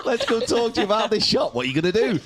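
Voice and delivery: very high, bubbly mock greeting; hammed-up eager friend bounding over; mock chirpy hello. Mocking the girls rushing over to chat, high and bubbly.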